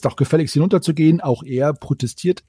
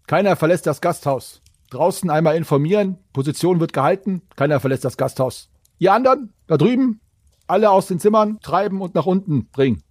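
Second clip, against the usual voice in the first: barking orders; 4 semitones higher than usual. Acted.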